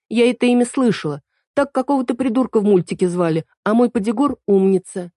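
put-on high, indignant young girl correcting him; girl Эль voice. A narrator's reading. Эль jumps in to correct Марко, high and indignant. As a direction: pitch it up as the fussy girl fairy. Эль refuses the name Чип.

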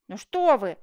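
loud burst of indignation; indignant. Acted. Prisoner rejects being called a murderer, indignant. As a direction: protest with offended force. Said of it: "возмутился Жак".

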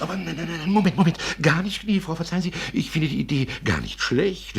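eager protest. Acted. Carter eagerly backing the plan.

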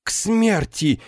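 high shocked cry; horrified exclamation. Acted. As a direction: recoil as if struck by lightning. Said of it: "воскликнула Гудула". (потрясённый возглас, высоко)

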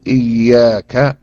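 إياك stretched very slowly with the ي doubled; slow teaching model of إياك. Shown as a demonstration. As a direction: draw out إياك and hold the doubled ي. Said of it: "بتشديد الياء".

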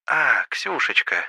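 gently pleased recognition; delighted. A narrator's reading. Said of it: "Собеседница явно обрадовалась". (обрадованно)

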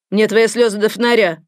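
loud harsh yell at the patient; a scary nurse yelling. Acted. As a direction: bark it at her angrily. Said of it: "орала страшная тётка".

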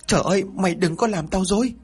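high frightened outcry; shouting. A narrator's reading. Mother cries out in panic at Tuấn, high. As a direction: cry out in panic. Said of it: "Chị Bảy liền la lớn".

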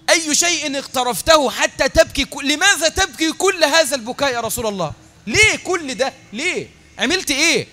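loud, rising, urgent questioning; impassioned pleading questions. Acted. Preacher imagines asking the Prophet why he weeps, loud and impassioned. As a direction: beg to know why he weeps, voice climbing.

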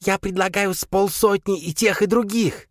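high squeaky creature voice. A narrator's reading. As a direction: squeak it eagerly. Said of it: "пропищал Крисп".

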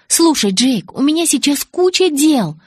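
high, loud and impatient; impatient brush-off. A narrator's reading. Bella puts off Jacob because she is busy, impatient.

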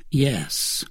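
understated, subdued sadness; sad yes. A narrator's reading. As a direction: answer with a touch of sorrow. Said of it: "each with a sadder intonation".

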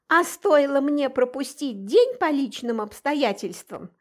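reproachful, pushing at her; pressing reproach. Acted. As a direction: nag her accusingly. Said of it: "наседала она на меня".

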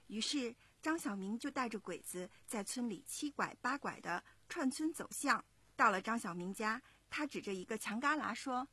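put-on lively storytelling to young listeners; story narration. A narrator's reading. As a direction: narrate clearly and expressively, like a children's story. 妈妈朗读故事旁白. (讲故事的旁白)

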